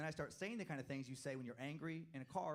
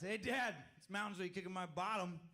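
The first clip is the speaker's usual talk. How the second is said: hammed-up boy testing curse words; mock eager kid; 6 semitones higher than usual. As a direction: play the excited son trying out swearing. Son's imagined first swear.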